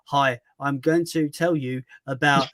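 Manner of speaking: slow, stiff scripted robot read. Shown as a demonstration. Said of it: "I just sound like a robot".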